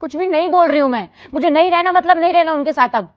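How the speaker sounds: heated, emphatic repeat of the refusal; defiant refusal. Acted. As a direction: dig in and refuse outright. Daughter insists on her refusal.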